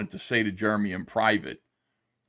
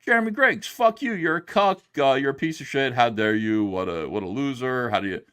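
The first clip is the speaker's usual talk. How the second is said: reading angry super chat. Retold or imitated. Streamer reads a viewer's insulting super chat aloud, mock outrage. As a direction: hurl the insults, then let them fade.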